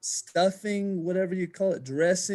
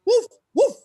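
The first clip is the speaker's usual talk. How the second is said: high, loud barking joke turkey; gobbling turkey voice; 10 dB louder than usual. Shown as a demonstration. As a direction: bark it out as a silly turkey. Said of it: "that's another great turkey".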